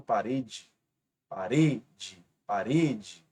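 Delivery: parede with the stress on "re", said slowly; stressed syllable shown. Shown as a demonstration. Teacher to students, "parede" stressed on "re". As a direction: lean on "re" in "parede". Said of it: "Observe que a penúltima é a sílaba mais forte".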